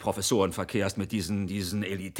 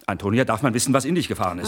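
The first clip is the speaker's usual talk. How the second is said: louder demand; raised voice; 6 dB louder than usual. Acted. Husband demanding to know what got into Antonia, raised voice. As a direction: call her to account.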